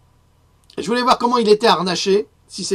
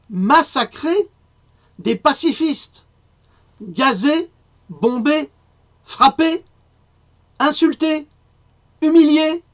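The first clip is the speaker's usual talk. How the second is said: indignant rising outcry, each word higher and louder; outraged; 9 semitones higher, 4 dB louder, slower than usual. Real, not acted. Denouncing the government's violence to viewers, in an escalating indignant outcry. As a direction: hurl each word out in mounting fury.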